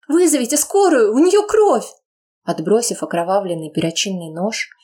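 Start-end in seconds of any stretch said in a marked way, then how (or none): 0.1-1.9 put-on high desperate girl's cry; frantic plea. Daughter begging guards for an ambulance, frantic. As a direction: beg them to call an ambulance.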